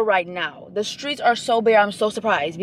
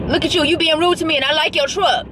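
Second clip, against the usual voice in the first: sassy at a driver; 5 semitones higher than usual. Real, not acted. Talking at a rude driver.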